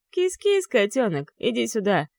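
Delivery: high teasing sing-song kitty call; mocking kitty call. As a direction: lure him in with a sneer. (насмешливый зов «кис-кис»)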